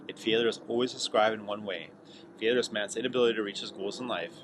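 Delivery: measured solemn reading of a creed; reading aloud. Acted. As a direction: read it like a personal vow. Reads scroll aloud.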